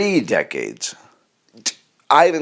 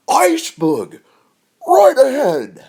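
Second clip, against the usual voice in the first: fearful try; 4 dB louder, slower than usual. Pretend. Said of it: "It still sounds wrong".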